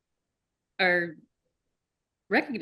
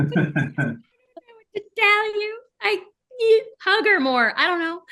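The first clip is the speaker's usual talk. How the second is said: laughing mock advice; 13 semitones higher, 7 dB louder than usual. Telling fans to hug their Toga-like friend, laughing. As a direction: shrug it off through giggles.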